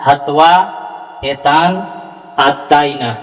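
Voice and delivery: हत्वा एतान आतताइन word by word; correct recitation. Shown as a demonstration. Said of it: "इस तरह से आपका उच्चारण शुद्ध होगा".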